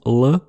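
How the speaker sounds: dark L as in Russian; velarized L. Shown as a demonstration. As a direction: say L as a dark English L. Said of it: "le tilde à travers le L".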